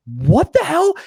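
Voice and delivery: high-pitched baffled question; mock bewildered reaction; acted disbelief. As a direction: pitch it way up, incredulous.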